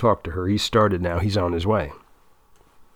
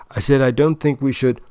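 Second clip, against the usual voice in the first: firmer and louder, repeating it; insistent repeat; 4 semitones higher, 4 dB louder than usual. Acted. Repeating himself to girlfriend.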